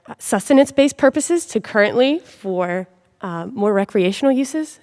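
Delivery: muffled behind a face mask; through a face mask. Real, not acted. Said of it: "pardon my mask".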